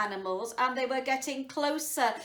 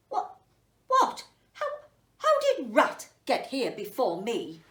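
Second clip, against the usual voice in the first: shocked disbelief; 2 semitones higher, 8 dB louder than usual. Acted.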